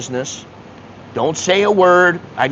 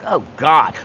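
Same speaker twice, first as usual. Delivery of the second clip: disgusted. Retold or imitated. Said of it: "disgusted is a better word".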